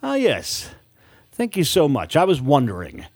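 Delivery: a touch of overeager charm; eager. Acted. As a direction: jump in with eager politeness. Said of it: "an eager smile on her face".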